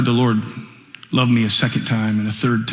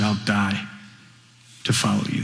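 hushed whisper; 3 semitones lower, 7 dB quieter than usual. Retold or imitated. Peter's hushed promise retold.

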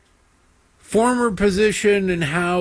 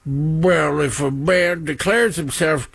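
put-on failed British accent; slower than usual. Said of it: "no, that's not a British accent".

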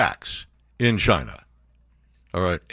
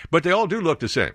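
mock Trump quote; 6 semitones higher than usual. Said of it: "No, he didn't say that".

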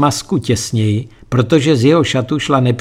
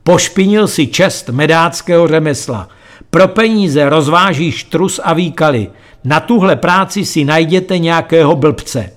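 higher, indignant declaration; proclaiming; 4 semitones higher than usual. Acted. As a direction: denounce him with wounded pride.

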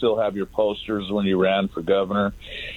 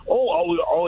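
mock flustered stammer, raised pitch; imitated stuttering; 5 semitones higher than usual. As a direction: mimic someone fumbling for an answer. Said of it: "He's stuttering".

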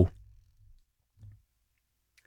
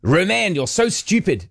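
South African friend; 5 semitones higher, slower than usual. Retold or imitated. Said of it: "in her South African".

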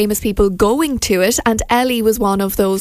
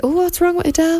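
surprised; 7 semitones higher than usual. Retold or imitated. Imagined reaction to gloomy photo.

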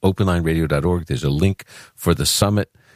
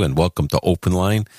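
New York accent; 3 semitones higher than usual. Shown as a demonstration. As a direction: welcome line in a Brooklyn accent. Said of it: "I could talk like this if I wanted to".

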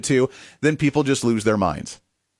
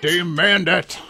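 parroting the clip's line in a mock-solemn voice; mocking imitation of a ranting protester; mocking echo; 2 semitones higher, much slower than usual. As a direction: echo her words back with a sneer. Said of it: "echoing the clip".

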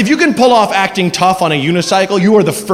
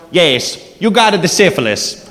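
put-on Mario accent; slower than usual. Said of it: "with that accent".

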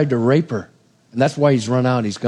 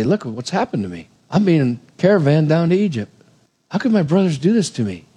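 dismayed lament. Retold or imitated. Joseph voiced, dismayed.

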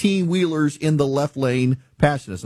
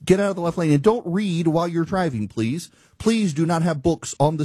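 mad, raised-pitch scolding; real exasperation; 4 semitones higher than usual. Real, not acted. Host telling drivers to get out of the left lane, real exasperation. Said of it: "I'm still mad about it".

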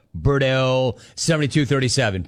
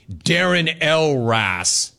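mock formal; much slower than usual. Mock formal name correction.

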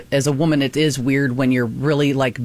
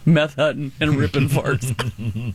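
laughing, slow; slower than usual. Real, not acted. Joke repeated amid laughter.

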